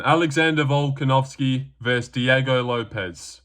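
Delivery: slow, drawn-out announcer call; ring announcer. Acted. Talker playing the ring announcer introducing the main event. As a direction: stretch out the fighter names like an MC.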